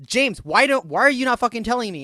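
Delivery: loud, high, rushed protest; retold exasperated yelling. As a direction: demand an answer from a stonewalling coworker. Retold argument with a coworker.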